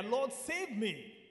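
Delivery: drawn-out demonstrated plea; short prayer plea. Shown as a demonstration. Preacher teaching the congregation a short prayer, pleading mildly. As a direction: say it slowly as a short cry to God. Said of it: "Learn how to say short prayer".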